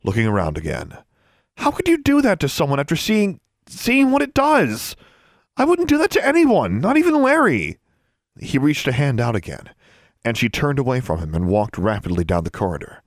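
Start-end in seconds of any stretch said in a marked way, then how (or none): 1.6-7.8 urgent lowered voice. A narrator's reading. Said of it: "lowered her voice".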